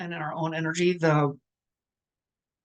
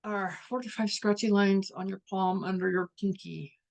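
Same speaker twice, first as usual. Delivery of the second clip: lightly hammed-up pushy asker; mock questioning; 3 semitones higher than usual. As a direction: press them with the question. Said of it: "So ask those questions".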